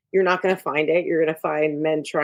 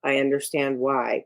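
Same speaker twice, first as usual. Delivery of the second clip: flat calm Godfather; 3 semitones lower than usual. Retold or imitated. Mob boss answering an upset man, flat calm. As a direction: say it flat, no feeling. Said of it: "it's very flat".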